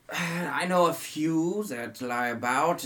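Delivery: high, slow sigh into the words; sigh, then answer slowly; weary Van Richten. Acted. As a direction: hunter wearily admitting what he knows.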